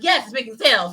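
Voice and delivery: upbeat, emphatic YES; enjoying it. Acted. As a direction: say yes like you enjoy the sales. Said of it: "you wanna enjoy that".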